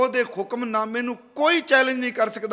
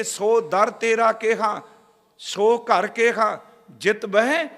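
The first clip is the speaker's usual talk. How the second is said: slow, louder intoned verse; gurbani recitation; 4 dB louder, slower than usual. Acted. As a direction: stretch each phrase in reverence. (ਹੌਲੀ ਕੀਰਤਨੀ ਪਾਠ)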